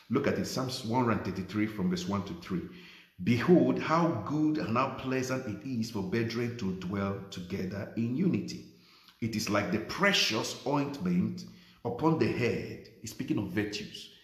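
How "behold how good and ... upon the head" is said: slow, solemn reading of the psalm; scripture reading. Acted. Pastor slowly reading psalm to congregation, solemn. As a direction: read it out slow and weighty.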